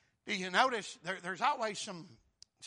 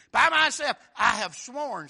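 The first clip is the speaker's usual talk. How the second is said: God's voice; 4 semitones higher, 13 dB louder than usual. Acted. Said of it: "this is God speaking".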